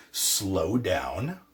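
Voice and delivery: "slow down" drawn out; slowed for emphasis. Shown as a demonstration. Teacher shows English emphasis to learners, slowed down. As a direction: stretch "slow down" to stress it. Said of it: "what was I doing".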